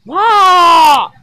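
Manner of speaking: a playful loud cry of wonder; loud whoa. Pretend. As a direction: yell it out in amazement. Kids playing with toys.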